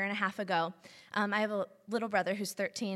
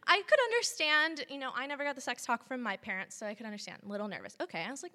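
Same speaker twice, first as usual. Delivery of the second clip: ordinary delivery, nothing marked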